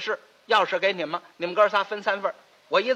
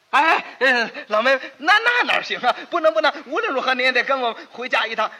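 insistent pleading; 3 semitones higher, 4 dB louder than usual. Acted. Brother pleading with sister.

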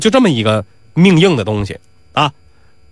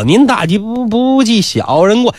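high, tripping apology; muddled stammer; 6 semitones higher than usual. Acted. Doorman apologising to Nisi, muddled stammer. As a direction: stumble and repeat while begging pardon. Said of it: "你话都说不清".

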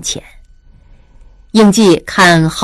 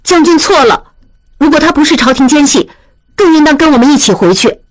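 higher, quick and commanding; firm 莲花; 8 semitones higher, faster than usual. A narrator's reading. 莲花 stopping 应季, high and insistent. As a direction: block his way with a sharp order. 莲花 rebuts the general.

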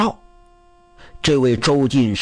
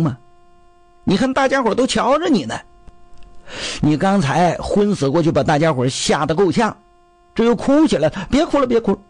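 higher pleading scolding; coaxing brother-in-law; 3 semitones higher than usual. Acted. Jin Youyu pleads with his crying brother-in-law, higher voice. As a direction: coax him to stop crying.

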